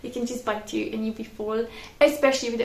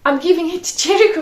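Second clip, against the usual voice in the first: confused; 5 semitones higher, 9 dB louder, faster than usual. Retold or imitated. Retold confusion on bus.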